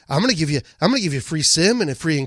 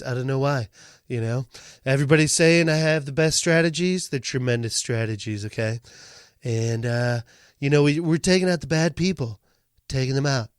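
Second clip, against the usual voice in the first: bragging Trump voice, low endings; lightly voiced Trump, tremendous; Trump impression; 5 semitones lower than usual. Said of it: "how about Trump?".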